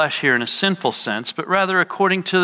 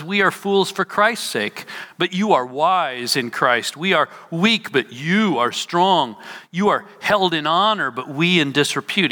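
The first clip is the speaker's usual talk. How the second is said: mildly sarcastic quote, set out in contrasts. Retold or imitated. Preacher quoting Paul on fools and the wise, mildly sarcastic. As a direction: set "we" against "you" with a touch of irony. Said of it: "He says that sarcastically".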